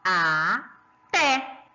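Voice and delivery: "Até" in two separated syllables, a... té. Shown as a demonstration. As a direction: pause inside "Até" so the stronger TÉ stands out. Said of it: "Vamos ver qual que é a mais forte?". ("Até" sílaba por sílaba, destacando o TÉ)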